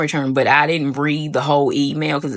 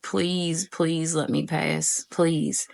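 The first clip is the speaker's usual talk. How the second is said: slow, softer whispered-like begging; soft pleading; 3 semitones higher, 6 dB quieter, much slower than usual. Retold or imitated. Nervous student praying to pass, soft and slow. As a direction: beg quietly under the breath.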